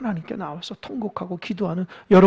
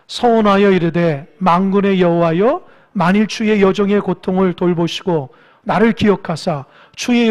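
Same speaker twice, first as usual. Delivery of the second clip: scripture reading; 3 semitones lower, 3 dB louder than usual. Acted. Pastor reading the vow verse to congregation, solemn reading. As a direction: read the verse with weight.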